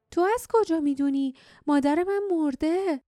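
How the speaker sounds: high-pitched indignant outburst; angry cry. A narrator's reading. Jasmine rejecting the man's talk of her mother, angry cry. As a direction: cry out in anger, pitch leaping up. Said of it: "جاسمین با عصبانیت فریاد زد".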